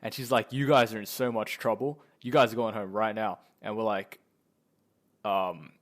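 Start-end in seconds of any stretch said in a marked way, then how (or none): 0.5-3.4 louder, mildly acted scolding; pissed-off teacher. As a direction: imitate an angry teacher laying down the law. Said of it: "really pissed off".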